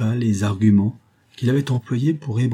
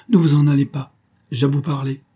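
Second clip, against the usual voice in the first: higher, louder urgent command; calling someone back; 6 semitones higher, 5 dB louder than usual. A narrator's reading. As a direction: stop him before he goes. Stopping visitor at the door. (rappel pressant)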